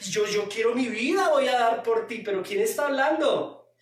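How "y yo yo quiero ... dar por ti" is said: higher, gushing Peter; lightly voiced overeager disciple; emotional Peter. Preacher voices emotional Peter pledging his life, gushing. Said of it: "Pedro emocionalista".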